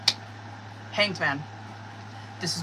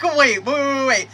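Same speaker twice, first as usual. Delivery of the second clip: excited stopping; 5 semitones higher, 6 dB louder than usual. Retold or imitated. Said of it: "I'm like".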